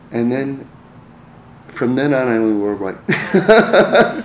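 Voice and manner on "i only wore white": slow, amused delivery through a laugh; chuckling at himself. Real, not acted. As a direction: let the laugh break into the punchline. Punchline of wife's preference.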